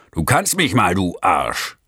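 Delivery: laut und höher hinübergerufen; gerufene Beschimpfung. Acted. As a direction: ruf ihm die Beleidigung frech zu. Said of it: "und rief". (Fahrer ruft dem schwankenden Mann lachend zu, laut)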